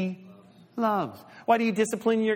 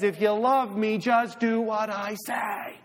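lovely voice; 3 semitones higher, slower than usual. Shown as a demonstration. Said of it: "In a lovely voice".

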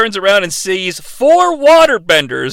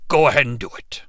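whisper; 7 semitones lower, 6 dB quieter, faster than usual. Pretend. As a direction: lower whispered urging. Dragon urging Avatar.

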